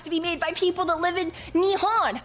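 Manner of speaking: lightly played nerdy anime snob; pedantic, mock-huffy know-it-all; nerdy chick. Nerd lecturing on anime, a touch condescending. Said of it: "she will always be the nerdy chick".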